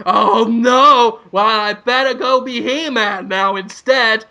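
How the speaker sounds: a touch of hammed-up heroic dismay; Prince Adam. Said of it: "Prince Adam says".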